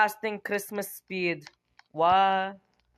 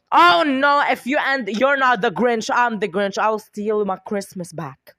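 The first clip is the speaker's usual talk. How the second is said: mock outburst; 7 dB louder than usual.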